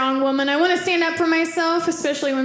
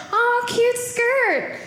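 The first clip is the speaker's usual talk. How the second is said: sing-song compliment turning into an under-the-breath threat; mock sweet, secretly hostile; sweet then menacing; 3 semitones higher, slower than usual. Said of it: "under the breath about it".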